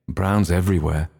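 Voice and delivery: ordinary delivery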